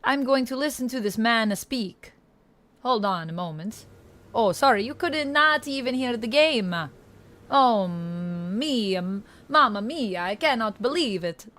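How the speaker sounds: attempted Italian accent, a bit unsettled; Italian accent still being found. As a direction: try on a playful Italian accent. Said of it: "settle more into this accent".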